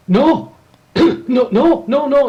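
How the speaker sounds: high, panicky "no, no"; flustered denial. Retold or imitated. Desk worker panics at black man's challenge, high flustered denial. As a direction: backpedal in a rising fluster.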